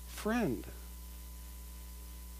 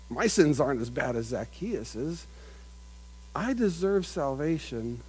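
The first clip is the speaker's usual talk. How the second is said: self-righteous; 3 semitones lower than usual. Acted. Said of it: "self-righteous".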